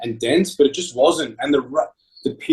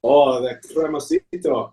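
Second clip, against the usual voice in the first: put-on Italian accent; slower than usual. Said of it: "say in your best Italian accent".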